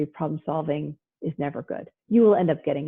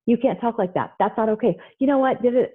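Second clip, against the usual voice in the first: reactive scolding; 5 semitones higher than usual. Retold or imitated. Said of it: "and you start to say".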